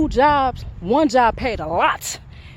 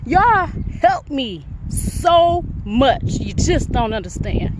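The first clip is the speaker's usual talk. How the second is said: slow heartfelt; slower than usual. Real, not acted. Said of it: "before I get too emotional".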